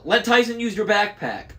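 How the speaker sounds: loud, high urgent call; yelling. A narrator's reading. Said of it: "I yelled".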